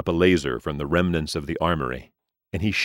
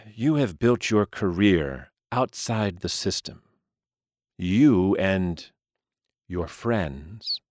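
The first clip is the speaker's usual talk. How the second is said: aging gentleman voice; 4 semitones higher than usual. Acted. Mister Lee explains.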